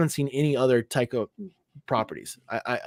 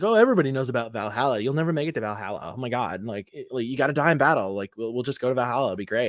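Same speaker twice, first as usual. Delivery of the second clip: mock matter-of-fact; 2 semitones lower, faster than usual. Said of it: "talking about it so matter-of-factly".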